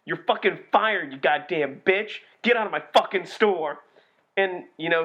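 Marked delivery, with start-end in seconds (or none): 0.1-3.8 loud furious firing rant; retold angry boss yelling. Video store manager firing goth girl, shouting. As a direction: yell at the lazy clerk. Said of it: "he's like".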